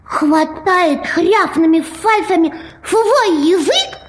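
slow mushy lisp; struggling with a fat tongue; swollen tongue. Acted. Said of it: "каша во рту".

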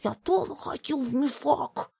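put-on high whiny little boy voice; cartoon crybaby. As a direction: whine like a five-year-old. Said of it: "хнычущим голосом".

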